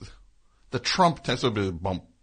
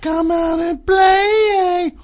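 loud, high DJ sing-song; radio voice; 11 dB louder, slower than usual. Acted. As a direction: ham it up like a radio host. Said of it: "radio voice".

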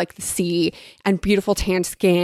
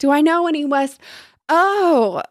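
high, hammed-up lady greeting an inferior; theatrical mock-delighted condescension; feigned haughty surprise; 8 semitones higher, 4 dB louder, slower than usual. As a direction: put on airs, voice swooping high and louder. Buttercup feigns haughty surprise at visitor.

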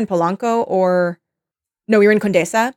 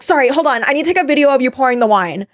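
higher, hurried mock influencer; annoying influencer; 5 semitones higher, faster than usual. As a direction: interrupt urgently, imitating a fussy content creator. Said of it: "everything she's saying is so fucking annoying".

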